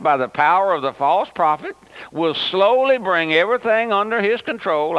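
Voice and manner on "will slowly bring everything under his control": slowly stretched and stressed, the rest plain. Shown as a demonstration. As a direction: lean hard on the word slowly, drawing it out. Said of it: "I emphasize that word slowly".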